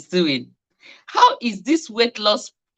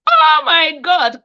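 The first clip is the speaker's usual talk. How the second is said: excited; 7 semitones higher, 4 dB louder, slower than usual. Real, not acted. Excited at a new viewer.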